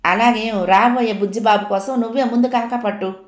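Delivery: mild sharp comeback; a light retort between sisters; tit-for-tat retort. Acted. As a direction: toss the jibe right back at her. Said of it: "మాటకి మాట అంటించింది".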